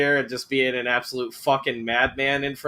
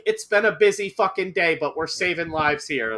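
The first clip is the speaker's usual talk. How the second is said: busy surgeon voice; 5 semitones higher than usual. Retold or imitated. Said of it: "been like".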